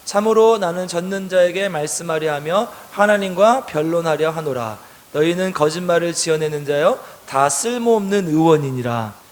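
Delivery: slow, measured read-aloud verse; deliberate congregational Bible reading; scripture reading. A narrator's reading. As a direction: read it out slowly and evenly for a group.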